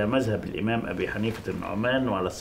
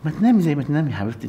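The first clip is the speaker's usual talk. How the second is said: flustered; 4 semitones higher, 3 dB louder, faster than usual. Acted. Husband deflects, rattled.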